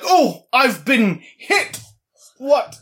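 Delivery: hammy, slow dying cries; overacted death scene. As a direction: ham it up like a bad actor dying. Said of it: "a really bad actor ... death scene".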